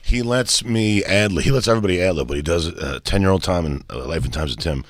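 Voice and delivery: breathless, catching his breath; panting after a walk. Real, not acted. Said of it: "I'm so out of breath".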